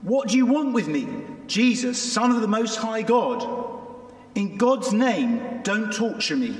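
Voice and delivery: shouted. A narrator's reading. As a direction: read it out loud and high, a controlled shout. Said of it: "He shouted at the top of his voice".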